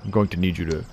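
low, soft, creepy lover; hushed mock-romantic command; mock seduction. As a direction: murmur it low, as a hammy come-on. Resumes mock seduction of Joshua.

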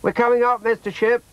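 put-on high child's shout to someone above; calling up. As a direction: call up eagerly in a high child's voice. Child calls up to sailor.

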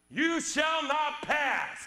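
slow, drawn-out commanding decree; movie wizard line. Retold or imitated. Preacher quoting the Lord of the Rings to the congregation, slow commanding decree. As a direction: plant your feet and forbid the enemy passage. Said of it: "Taken from a script in a movie".

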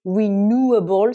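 renewable in an American accent, ri-NOO-uh-bl; American pronunciation. Shown as a demonstration. Teacher giving the American renewable. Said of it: "c'est la prononciation américaine".

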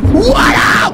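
very loud, high attacking yell; battle yell. Real, not acted. Player charging at the fedora wearer, battle yell. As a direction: holler it as you strike.

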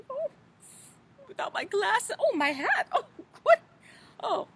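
put-on fussy, fluttery old storybook lady, gently theatrical; Mother Goose voice. Children's librarian as Mother Goose, fluttery storybook voice. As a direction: play a dotty nursery-rhyme granny for children.

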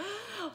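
sharp frightened gasp; acted gasp of fright; scared gasp. Shown as a demonstration. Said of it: "What does scared look like?".

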